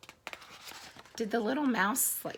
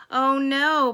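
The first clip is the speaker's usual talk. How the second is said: higher, louder storybook dismay; alarmed bees; 5 semitones higher, 9 dB louder than usual. Acted. Bees hearing of the sneeze, alarmed. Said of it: "buzzed the bees".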